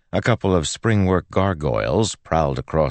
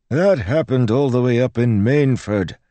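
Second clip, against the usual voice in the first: high, loud priest's rebuttal; dismissive priest; 11 semitones higher, 6 dB louder than usual. Acted. Priest dismisses the girl's example, exasperated. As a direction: brush off her example as the priest.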